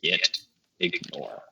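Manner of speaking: muttered. Real, not acted. Typing the filename, muttered aside.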